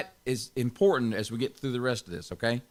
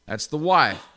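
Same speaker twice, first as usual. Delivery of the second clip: wife said louder, with a laugh; stress on wife; 3 dB louder than usual. Shown as a demonstration. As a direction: lean on the word "wife". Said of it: "I'm gonna stress that word wife one more time".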